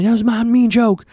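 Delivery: high-pitched caricature of a ranting man; mock angry yelling. Jason runs up to Hannah, hammed-up yelling. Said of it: "he just starts yelling at Hannah".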